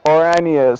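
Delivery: "Oranje" said the Dutch way; Dutch pronunciation. Shown as a demonstration. Commentator explaining what he was trying to say, "Oranje" in Dutch. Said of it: "I wanted to say it the Dutch way".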